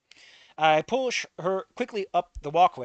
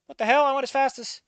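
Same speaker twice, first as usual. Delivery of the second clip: loud, high startled yell; startled outburst; 10 semitones higher, 6 dB louder than usual. Acted. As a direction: blurt it out in shock.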